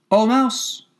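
high, lifted call to a mouse. A narrator's reading. Alice reciting her brother's Latin grammar, high calling voice. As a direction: finish on a high, ringing address.

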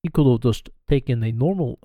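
attempted German slipping into Russian; lightly put-on German-Russian accent; botched German accent. Shown as a demonstration. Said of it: "I think I went Russian".

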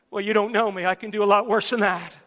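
normal talking voice

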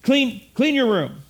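lightly voiced parent giving the order; mild first-time "clean your room"; parent's first request. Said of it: "you tell your kid".

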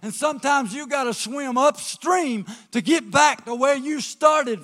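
loud, building preacher cadence; full-force preaching. Acted. Pastor urging the congregation to stay tied to the dock, preaching loud.

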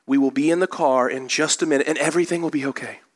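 mildly soothing, even retold reassurance; imitating a patient father keeping his cool; very calm dad. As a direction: calmly talk yourself down, easing off at the end. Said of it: "Dad was very calmly saying over and over again".

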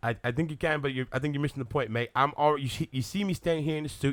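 put-on indignant British accent; Henry Cavill. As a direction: protest like a miffed Englishman. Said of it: "You do Henry Cavill".

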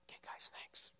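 quick whisper to the helpers; a hushed thank-you off to the side; whispered aside. Real, not acted. Aside to volunteers leaving stage.

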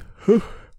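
loud, high, drawn-out yawn; big yawn. Real, not acted. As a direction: let out a tired yawn. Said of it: "I'm yawning like a little".

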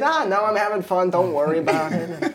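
light high carefree voice; breezy, unbothered drowning uncle; carefree impression. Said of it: "I don't know what this impression is".

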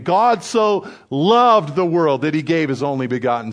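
bold proclamation of scripture, emphatic; blatant messenger. Acted. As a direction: declaim the verse openly as God's messenger. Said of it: "blatant messenger of God standing there".

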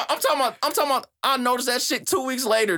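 high, laughing disbelief; laughing excitement. Real, not acted. Telling friends he got the line weeks later, laughing high. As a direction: laugh through it, still amazed. Laughing about a late realisation.

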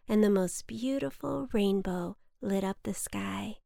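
usual speaking voice

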